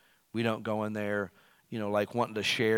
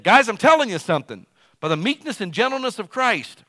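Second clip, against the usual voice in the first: pleading apostle; 10 semitones higher, 11 dB louder than usual. Retold or imitated. Voicing Paul pleading with church.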